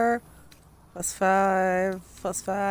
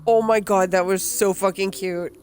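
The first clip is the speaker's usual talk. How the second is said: gushing; 2 semitones lower, 5 dB louder than usual. Real, not acted. Gushing over cute game scene.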